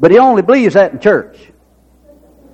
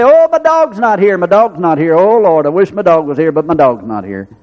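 mock bawling lament. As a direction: wail mildly like a helpless dog owner. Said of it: "he sat there and cry and bawl and squall".

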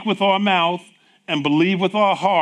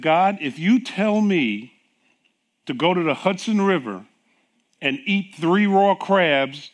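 determined vow; 4 dB louder than usual. Retold or imitated. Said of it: "this is the way I said it".

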